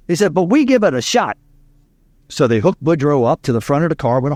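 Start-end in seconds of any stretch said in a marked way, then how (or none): 0.3-1.4 put-on light Cajun accent, raised pitch; a hint of old Cajun farmer. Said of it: "an old Cajun from Southwest Louisiana, farmer".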